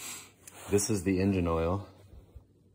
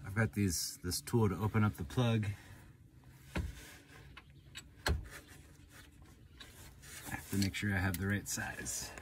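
talking while lying under a car; strained voice from under a car; 10 dB quieter than usual. Real, not acted. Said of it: "Okay, so I'm under the car".

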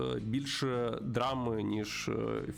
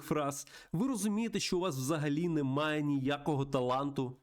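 higher, indignant scolding; exasperated, contemptuous rant in a raised pitch; irate studio boss; 5 semitones higher than usual. Acted. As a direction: tear into a hopeless scriptwriter with scorn. Plays angry film boss.

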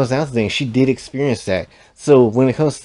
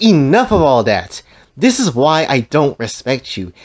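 fed up; 3 semitones higher than usual. Retold or imitated. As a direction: tear into him, sick of his nonsense. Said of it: "start gritting my teeth".

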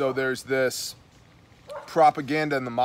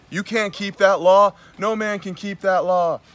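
high, loud mocking proclamation; mocking shout; 7 semitones higher, 5 dB louder than usual. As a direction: boom it out like a preacher. Mocking church claim, loud high.

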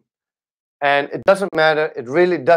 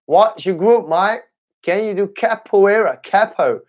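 higher-pitched mock Australian accent; 4 semitones higher than usual. Shown as a demonstration. Streamer asking viewer about capoeira in a mock Australian accent. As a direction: put on a playful Aussie accent, pitched up. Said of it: "shall I do an, uh, Australian accent?".

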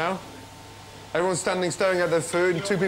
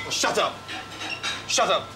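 angry shout; 5 semitones higher, slower than usual. Real, not acted. Chef silencing his brigade after a failed service, angry shout. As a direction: cut them off hard.

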